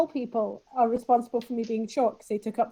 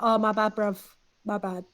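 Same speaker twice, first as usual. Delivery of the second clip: put-on Cockney accent. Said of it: "a deep Cockney accent".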